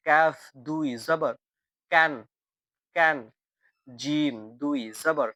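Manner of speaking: slow, measured recitation drill, each syllable repeated; drilling tanween sounds. Shown as a demonstration. Teacher drilling Quran letters with double fatha for students to echo. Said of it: "আমার সাথে practice করবেন".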